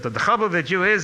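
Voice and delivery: put-on Lithuanian accent. Rabbi scolds his student in English, thick Lithuanian accent. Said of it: "in his Lithuanian accent".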